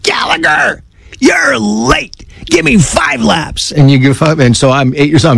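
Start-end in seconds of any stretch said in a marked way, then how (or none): 0.0-3.7 put-on high, forceful coach yelling at a late kid; coach's bark. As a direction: bark it like a coach blowing a whistle. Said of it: "He's like".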